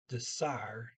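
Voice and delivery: "dessert" said as deh-SAR, silent T; Norwegian pronunciation. Shown as a demonstration. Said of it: "the E R toward the end as R".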